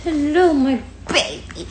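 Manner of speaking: high, exaggerated pet greeting; high-pitched doting hello. Real, not acted. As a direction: greet a puppy in a high coo. Cooing to the puppy.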